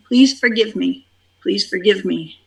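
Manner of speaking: gentle fading forgiveness prayer; prayerful plea, fading. Shown as a demonstration. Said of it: "you say that over and over".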